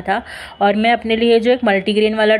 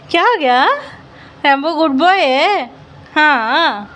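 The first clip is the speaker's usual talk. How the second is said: squeaky praising a dog; 6 semitones higher than usual. Real, not acted.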